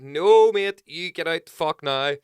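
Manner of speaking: high, loud order to get out; high, loud mock fury with a French intruder; retold angry order. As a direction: throw him out of the tent.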